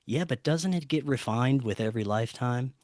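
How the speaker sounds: softly quoted, a touch solemn; retold line with quiet, mild gravity; stoic and serious. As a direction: imitate a serious, stoic friend in an understated way. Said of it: "looks at me very stoic and serious".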